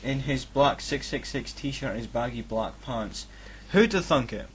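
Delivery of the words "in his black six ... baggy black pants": mock dramatic reading.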